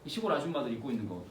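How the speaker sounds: ordinary delivery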